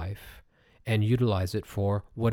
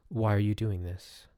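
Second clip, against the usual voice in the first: gentle voice. Pretend. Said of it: "It's a very gentle voice".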